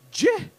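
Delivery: "J-A-M" as separate letter sounds, juh, ah, mm; mock a child sounding out "J-A-M" with long gaps; sounded out slowly. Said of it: "She's just saying it slow".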